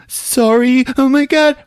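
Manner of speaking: squeaky startled apology. Retold or imitated. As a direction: yelp it out in embarrassed shock. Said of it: "she's like".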